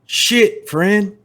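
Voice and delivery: loud, threatening cowboy. Acted. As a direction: lean in on him like a gunslinger. GM voices Tex, menacing.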